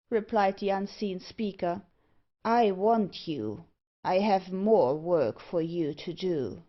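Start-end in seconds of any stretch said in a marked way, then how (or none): 2.4-6.6 very slow, deliberate command; menacing villain. Acted. Unseen speaker claims the dwarf for work, slow and commanding. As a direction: weigh out each word with authority.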